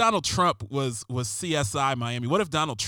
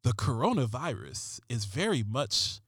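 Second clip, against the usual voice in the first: a hint of a brooding crime-show cop; understated TV detective read; David Caruso voice; 2 semitones lower than usual. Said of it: "I'm gonna use a David Caruso voice".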